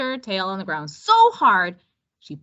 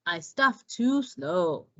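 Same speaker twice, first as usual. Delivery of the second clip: slow tortoise voice; 3 dB quieter, slower than usual. Acted. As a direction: drag each word like a tired tortoise. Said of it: "said Tortuga".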